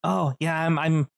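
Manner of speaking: put-on proud kid who can't wait; a hint of a child voice; lightly voiced little boy. GM voicing the kid.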